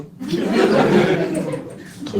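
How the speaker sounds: slow breathless wheeze of laughter; wheezing laugh. Real, not acted. Comedian laughing through the setup, wheezy laugh. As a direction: laugh out the words.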